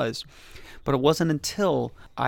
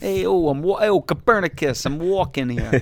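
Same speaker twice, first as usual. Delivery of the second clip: East Coast caricature; 3 semitones higher than usual. Acted.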